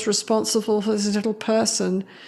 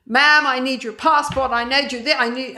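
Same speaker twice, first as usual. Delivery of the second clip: lightly voiced insistent airport agent; a touch higher, pressing for the passport; insistent official; 3 semitones higher than usual. Airport agent asking a busy mother for her passport, insistent.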